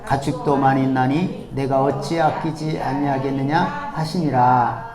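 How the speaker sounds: slow, measured congregational Bible reading; scripture reading together. Acted. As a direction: read the verses aloud in step with the congregation. 회중과 함께 성경 봉독. (회중과 함께 천천히 성경을 봉독하는 목소리)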